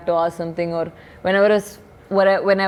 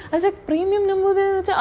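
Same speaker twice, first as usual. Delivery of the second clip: laughing retelling; 11 semitones higher, much faster than usual. Real, not acted. Still laughing at the phrase.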